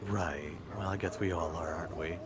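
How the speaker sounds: hushed and tender. Acted. Character consoles Stitches softly.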